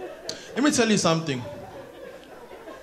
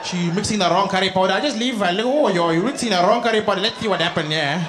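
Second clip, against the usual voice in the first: gossiping Indian auntie voice; an Indian auntie bragging and griping. Acted. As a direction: complain like a nosy mother-in-law. Auntie character continues.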